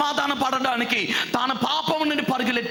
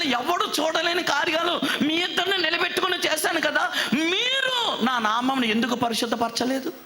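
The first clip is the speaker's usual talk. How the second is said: grieving God; 6 semitones higher than usual. Acted. God voiced, grieving over disobedience.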